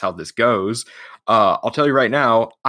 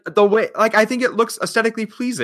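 laughing protest; 9 semitones higher, 6 dB louder than usual. Real, not acted. Laughing protest at bracket teasing.

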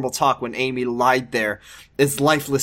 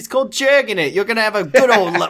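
higher, chipper goofy doctor; 5 semitones higher than usual. Acted. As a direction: sell the podcast cheerfully. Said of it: "Now that Jordan was voicing him".

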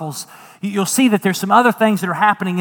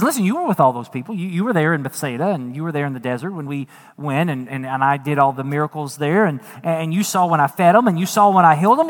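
voicing Jesus. Jesus voiced asking disciples.

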